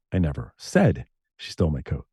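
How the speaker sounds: "said" lifted, the rest kept low; stress on SAID. Retold or imitated. Radio DJ shows how meaning shifts, stress on SAID. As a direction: weigh "said", implying it was only hinted. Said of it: "how I said them".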